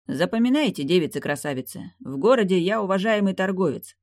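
lightly voiced self-assured merchant; a hint of a swaggering trader giving orders; confident merchant. Narrator voices Rigo instructing.

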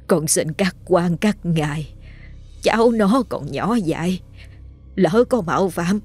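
slow, soft, trembling prayer to the spirits; tearful pleading. Acted. Grandmother begging graveyard spirits for her grandson, slow, soft and tearful. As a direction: beg on your knees, slow and hushed. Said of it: "mặt mày mếu máo lạy lục cầu xin".

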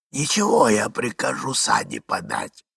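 a hint of a husky older man; hoarse male voice. Unknown husband offering sleigh, lightly hoarse voice. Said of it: "говорил сиплый голос".

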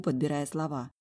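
ordinary delivery, nothing marked

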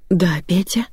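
timid, lightly voiced old woman; frightened babble. A narrator's reading. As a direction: answer meekly, a touch scared. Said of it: "испуганно пролепетала".

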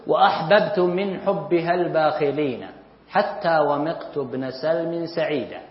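slow, measured recitation of an Arabic verse, stretching each word; slow poem recitation. Shown as a demonstration. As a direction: recite the line slowly, like classical poetry. Teacher recites a classical verse.

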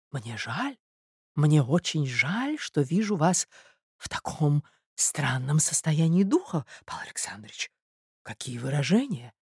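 soft, hushed regret; meek, pained lady. Acted. Marya pities the raging suitor, meek reproach. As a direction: sigh out gentle reproach, almost whispering.

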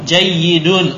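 loud, measured vocabulary drill; model reading. Shown as a demonstration. Teacher reading new words for the class, loud drill voice. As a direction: call it out for the class to echo. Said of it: "Naqra al kalimatil jadidah".

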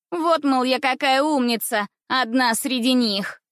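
angry sneer. Acted. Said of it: "она злилась".

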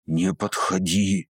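slow, hate-filled warning; full of hatred. A narrator's reading. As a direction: warn him off with pure hatred. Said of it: "В её голосе послышалось столько ненависти". (медленно, с ненавистью)

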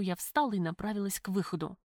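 ordinary delivery

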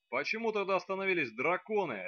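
high angry bark in her face. Acted. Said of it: "рявкнул ей прямо в лицо". (рявкнул прямо в лицо)

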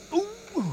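high, soft "oof" of effort; drawn-out high strained "ooh"; straining groan. Acted. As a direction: groan while heaving a heavy suitcase. Lifting a heavy suitcase.

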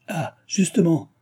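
high, drawn-out exclamation; crying out. A narrator's reading. Postmaster spotting returning horses, calling out. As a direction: call it out high and slowly, as a postmaster would. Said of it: "cria le maître de poste".

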